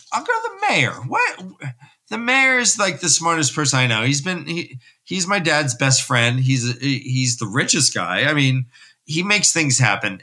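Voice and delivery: put-on boy insisting the mayor will help; eager insisting. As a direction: rush it, pitch way up, desperate hope.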